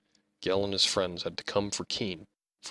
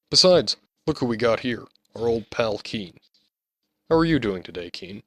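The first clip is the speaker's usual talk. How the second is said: taunting bully; 2 semitones higher, 7 dB louder than usual. Acted.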